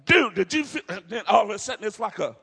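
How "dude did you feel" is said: high, excited surprise; amazed whoa. Retold or imitated. Man touching the garment, amazed and excited. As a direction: gasp it out like he just felt power.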